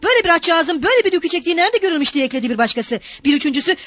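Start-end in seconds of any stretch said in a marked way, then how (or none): 0.0-2.1 high, scandalized protest; raised pitch, outraged old man; indignant cry. A narrator's reading. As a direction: scold the brute from the crowd. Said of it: "yaşlı bir adam da Mikolka'ya bağırdı".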